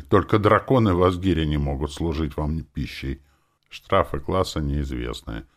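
game interface voice reading stats; a game character sheet read aloud; system readout. A narrator's reading. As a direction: announce the numbers like a game menu.

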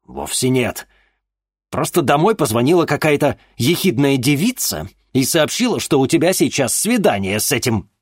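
high, loud agitated rant; angry father. Acted. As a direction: vent it at her.

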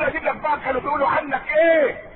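a hypocrite eagerly offering secrets; sly gossip offer. Retold or imitated. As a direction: lean in like a gossip with juicy news.

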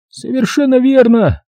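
high, sarcastic policeman; mock him while sending him off; mocking cop Jerry. A narrator's reading. (полицейский насмешливо отвечает рассказчику)

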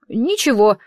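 ordinary delivery

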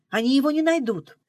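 confident insistence. A narrator's reading. Girl assures driver her brother is safe, confidently. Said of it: "«Наивная»".

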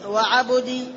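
وعبد said wa-'abudi, u after b; وعبد with u on ba, i on dal; damma on the ba. Shown as a demonstration. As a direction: put a short u after b in وعبد. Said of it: "بضم الباء".

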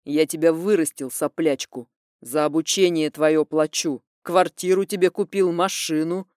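father reproaching his ungrateful daughter; angry father. Acted. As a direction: remind her who pays. Father listing what he gave.

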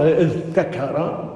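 اذ ذكر said as idh-takara; unmerged idh-takara for اذ ذكر; original form with ta. Shown as a demonstration. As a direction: still dh, then a clear t in اذ ذكر. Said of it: "وأصل".

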